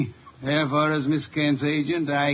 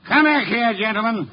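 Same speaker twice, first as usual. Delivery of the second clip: louder, higher command; commanding call; 5 semitones higher, 4 dB louder than usual. Acted. Detective orders fleeing crooks back, commanding. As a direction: call them back with authority.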